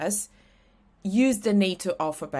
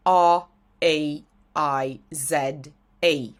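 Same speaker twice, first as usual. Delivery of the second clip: spelled out slowly; 4 semitones lower, slower than usual. Shown as a demonstration. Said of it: "my name is spelled".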